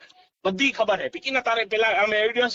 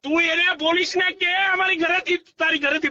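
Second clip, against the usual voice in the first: angry; 6 semitones higher than usual. Real, not acted. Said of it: "તમે અત્યારે ગુસ્સામાં".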